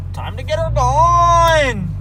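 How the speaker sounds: high, loud, stretched-out hype; excited drawn-out call. Acted. Revving up the truck.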